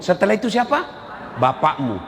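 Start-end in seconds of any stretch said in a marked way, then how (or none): 1.4-2.0 low, grave reply; solemn answer. Acted. Preacher voicing the Prophet's answer, low and grave. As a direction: answer weightily, lower.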